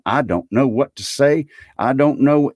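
high, amazed and at a loss; overwhelmed. A narrator's reading. Gentleman overwhelmed by the gift.

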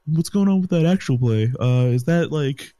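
lightly voiced snobby rich person; hint of a posh snob pestering. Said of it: "sound like a snobby person".

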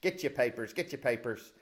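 old-time newsreel announcer, lightly hammed; 1940s newscaster. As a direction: hawk it like a street newsboy. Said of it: "We're gonna do this like nineteen forties newscasters".

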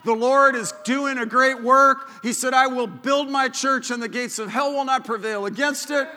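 rousing pulpit call; preaching at full force. Acted. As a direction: proclaim it over the congregation.

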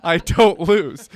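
slow smug gloat; slow mock gloat. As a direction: drag it out smugly. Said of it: "You said".

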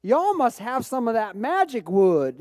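a touch of deep-South twang; deep Southern accent. Retold or imitated. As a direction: imitate an impressed Southern woman. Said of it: "says in a deep Southern accent".

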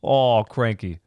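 put-on another failed go at an Australian accent; bad Australian accent. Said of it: "Listening to you try an accent".

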